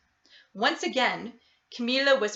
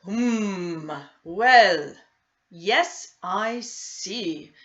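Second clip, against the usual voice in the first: mumbled; 5 dB louder, much slower than usual. A narrator's reading. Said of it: "Doctor Bumble mumbled".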